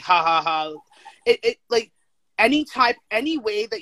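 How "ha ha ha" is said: flat, spelled-out fake laugh; mock laugh. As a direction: fake a throwaway "ha, ha, ha". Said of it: "like a side thought and be like".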